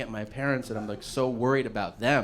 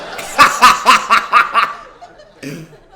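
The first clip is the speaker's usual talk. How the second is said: loud, burst of real laughter; cracking up for real; 8 semitones higher, 15 dB louder than usual. Real, not acted. Big laugh.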